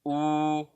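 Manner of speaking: U sustained through rounded lips; rounded, even U; pouted U. Shown as a demonstration. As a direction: pout the lips and hold "U". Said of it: "dhamma monyong mulut".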